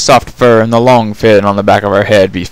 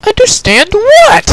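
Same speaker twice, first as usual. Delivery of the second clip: slow, high, loud exasperation; confused groan; 5 dB louder than usual. Acted. Twilight asks the prisoner, baffled and exasperated. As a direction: drag it out, baffled. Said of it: "Twilight groaned in confusion".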